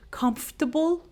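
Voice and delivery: "comfortable" as KUMF-tuh-bul; silent R. Shown as a demonstration. Teacher showing the missing R sound, "comfortable" without R. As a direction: drop the R from "comfortable". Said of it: "we do not pronounce the R sound".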